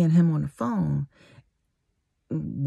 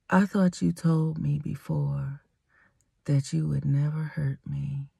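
soft, measured plea as retold; real soft voice; 6 dB quieter than usual. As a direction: say it gently and quietly, unhurried. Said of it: "said it in a real soft voice".

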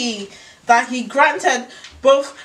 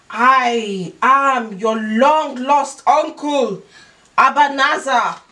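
villain voice; 2 semitones higher, 4 dB louder, slower than usual. Acted. Uncle character voice in story.

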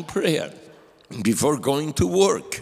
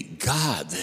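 much softer, lower, timid single word; timidly; 4 semitones lower, 6 dB quieter than usual. Retold or imitated. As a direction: shrink as you confess it. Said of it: "she said very timidly".

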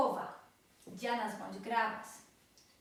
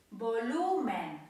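slow, loud Volumen, stressing the middle syllable; penultimate stress; 5 dB louder, slower than usual. Shown as a demonstration. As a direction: stretch and punch lu in Volumen. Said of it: "akcent pada na przedostatnią sylabę".

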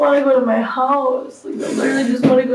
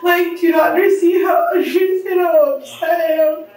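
crying shout; 2 semitones higher than usual. Real, not acted. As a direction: plead through tears. Arrested woman pleads, crying.

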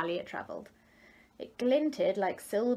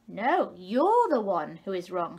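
insistent tadpoles; 6 dB louder, slower than usual. A narrator's reading. Tadpoles argue back.

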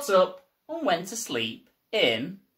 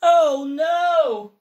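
high, loud wail of despair; Mister Bear's loud, high, exasperated wail; exasperated cry; 10 semitones higher, 8 dB louder than usual. Acted. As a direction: cry out like a fed-up bear.

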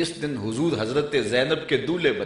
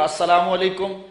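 clear, raised greeting; 5 semitones higher than usual. Retold or imitated. The Prophet greeting at a companion's door, raised and carrying. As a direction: call the greeting so it reaches inside. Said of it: "حضور نے پھر کہا".

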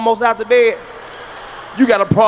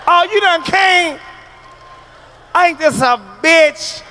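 mock wife's scorn; 6 semitones higher, slower than usual. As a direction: drawl it like a let-down wife. Wife's disappointed retort.

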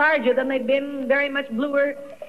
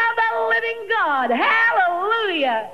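preaching shout; 6 semitones higher, slower than usual. Acted. Preaching climax, praising God.

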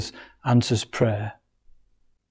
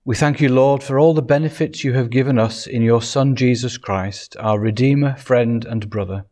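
hushed, unhurried prayer voice; 2 semitones lower than usual. Acted. Pastor praying for the congregation, unhurried. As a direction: lead the congregation gently in prayer.

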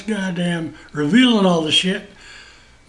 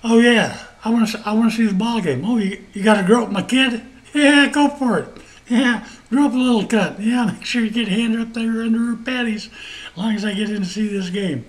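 sarcastically eager go-ahead; mock eager fan; 3 semitones higher than usual. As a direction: play a careless fan waving it through. Mocks sports fan allowing searches.

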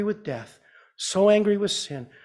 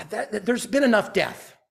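raised pitch, fed-up outburst; angry Jesus; 5 semitones higher than usual. Acted. Preacher voicing Jesus fed up with death, angry. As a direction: voice his anger at death, pitched up. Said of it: "Jesus is angry. He's like".

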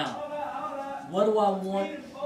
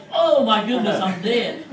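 much louder, higher, laughing through it; laughing mock terror; 6 semitones higher, 16 dB louder than usual. Chuck retells his panic at the inmate, laughing loudly. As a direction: laugh out the panic of a man sure he is doomed. Terrified thought retold amid laughter.

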